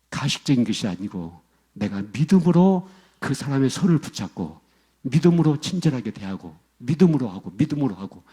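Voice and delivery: ordinary talk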